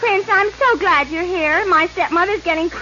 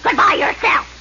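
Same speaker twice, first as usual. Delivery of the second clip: mean stepmother voice. Acted. Cruel stepmother voiced in parody.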